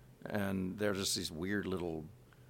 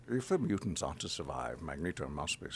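Patrick Stewart voice; 5 semitones lower, 4 dB quieter than usual. Retold or imitated. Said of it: "as Patrick Stewart".

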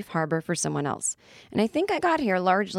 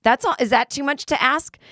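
1 mock indignant; 7 semitones higher, 5 dB louder than usual. Real, not acted. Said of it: "mock complaint".

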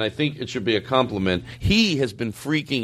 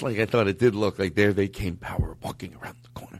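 whispering; 3 semitones lower, 4 dB quieter than usual. Real, not acted. Confessing aside.

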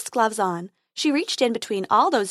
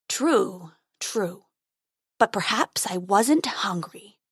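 growling dragon guarding treasure; slower than usual. Acted.

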